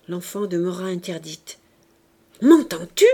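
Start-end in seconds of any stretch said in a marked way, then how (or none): 2.4-3.1 very loud, sharp demand; insistent angry shout. A narrator's reading. Father to his dumbfounded child, angry insistent shout. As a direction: shout the question as a threat. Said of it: "répéta le père".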